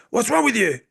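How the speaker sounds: scorn the student; mock sensei rebuke. Sensei rebuking a late student, scornful.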